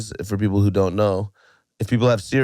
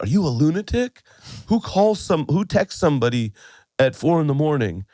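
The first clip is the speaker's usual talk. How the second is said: higher, incredulous questioning; lightly acted indignant friend; mock outrage; 6 semitones higher than usual. Friend woken by a four a.m. text, indignant.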